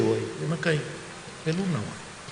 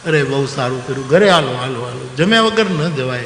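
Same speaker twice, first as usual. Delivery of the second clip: calling them home loudly and eagerly; hearty insistent host, louder; eager loud invitation; 3 semitones lower, 3 dB louder than usual. Retold or imitated. Host insists friends come eat, loud and eager.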